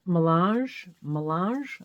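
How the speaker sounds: melange in an amateur French accent; attempted French accent. Shown as a demonstration. Crafter reading out a yarn label, attempted French accent. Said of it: "trying to have a French accent there".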